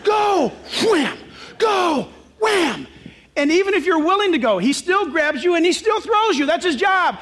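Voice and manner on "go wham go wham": shouted go, wham. Retold or imitated. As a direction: shout like throwing each man out. Sergeant throwing men out.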